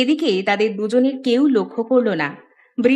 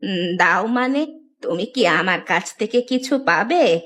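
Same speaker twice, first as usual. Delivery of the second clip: hesitant granny questioning a visitor; puzzled old woman. Acted. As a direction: question him in an aged voice, unsure. (বৃদ্ধার অবাক প্রশ্ন)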